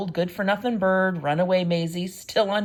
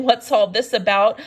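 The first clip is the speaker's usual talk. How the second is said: loud amazed call; shouting; 2 semitones higher, 8 dB louder than usual. A narrator's reading. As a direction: shout it from the crowd. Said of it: "the people came shouting".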